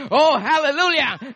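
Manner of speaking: loud, high joyful shout; shouted hallelujah. Shown as a demonstration. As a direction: lift it up and shout it. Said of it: "I can shout".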